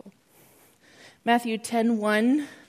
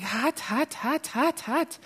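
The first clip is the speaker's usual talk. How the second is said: high, urgent repeated cries of hot; a woman suddenly feeling heat, high and urgent; mock cries of heat; 5 semitones higher, slower than usual. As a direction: voice her startled burning feeling, pitched up. Woman healed feels burning heat.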